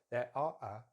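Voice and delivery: "are" reduced to "uh"; weak "are" in "There are a"; schwa. Shown as a demonstration. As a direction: say "are a" with uh vowels. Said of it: "put the R as a schwa".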